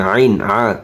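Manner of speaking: আইন from deep inside the throat. Shown as a demonstration. Teacher shows the letter ain, throaty আইন. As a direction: squeeze the first sound of আইন in the throat. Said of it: "আইন গলার ভিতরে ঢুকবে".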